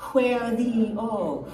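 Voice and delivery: "where the O" drawn out slowly, each word held; slow, stretched demo. Shown as a demonstration. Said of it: "So one and two".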